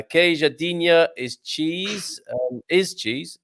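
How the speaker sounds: drawn-out slow reading of a viewer comment. Retold or imitated. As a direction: read it out slowly, feeling for the words. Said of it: "says Joel".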